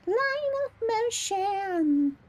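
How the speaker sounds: high, slow, drawn-out proclamation; dramatic announcement. Shown as a demonstration. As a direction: announce it grandly.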